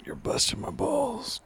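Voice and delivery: a squeaky falsetto tease; squeaky joking gripe at Brian; mock squeaky complaint. Friend teasing in squeaky voice.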